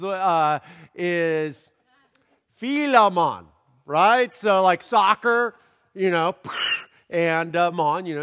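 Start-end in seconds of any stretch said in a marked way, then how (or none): 2.5-4.3 Philemon as fee-lo-mon, louder and higher; soccer-style pronunciation. Shown as a demonstration. Pastor giving the congregation another playful pronunciation, louder. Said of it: "the next alternative kind of thing is". 7.7-8.1 Jamaican mon. Shown as a demonstration. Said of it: "you got your Jamaican guy".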